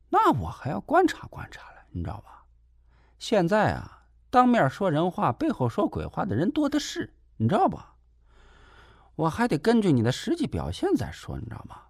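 high-pitched, needling caretaker voice; a nosy caretaker scolding him sarcastically; shrill, snide lecture from the caretaker; snide nurse. Acted. Caretaker sets terms.

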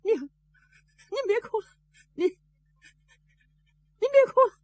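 slow, high, pleading comfort; comforting mother. Acted. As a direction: soothe her mother while holding back tears. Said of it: "还得劝".

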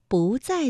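"不" rising as bú before 在; 不 in second tone. Shown as a demonstration. Teacher gives learners an example, "不" rising bú. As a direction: lift "不" into a second tone. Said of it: "所以我们读了二声".

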